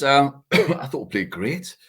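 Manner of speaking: throat full of dust, coughing; struggling through a dusty throat. Real, not acted. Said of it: "I've got dust in my throat here and I'm struggling".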